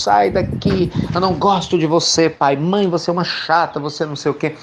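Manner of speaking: imitating an angry teenager; teenage outburst. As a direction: snap it like a sulky teenager at a parent. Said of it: "inconsciente das suas emoções".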